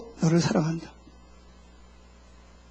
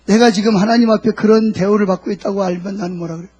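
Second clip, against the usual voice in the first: normal talking voice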